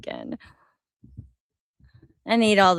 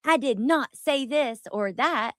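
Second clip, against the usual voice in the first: higher-pitched, lightly acted insistence; mock passionate denial; 6 semitones higher than usual. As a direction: mildly act out a passionate denial. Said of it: "get on here and passionately say".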